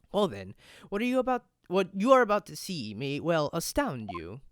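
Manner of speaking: a hint of a knowing sleuth; lightly voiced eloquent detective. Detective reveals his method against the Russian, lightly theatrical. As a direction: deliver it as a mildly theatrical detective.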